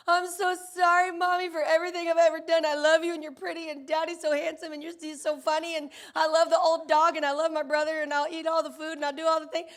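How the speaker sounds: a hint of children sucking up to mom; gushing kids. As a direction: sons pouring out apologies and compliments to mom. Kids gushing after losing Switch.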